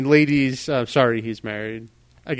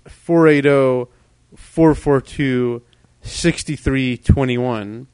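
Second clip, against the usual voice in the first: slow, clear number read; 4 dB louder, slower than usual. Shown as a demonstration. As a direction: read each digit slowly. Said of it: "if your short-term memory is exhausted".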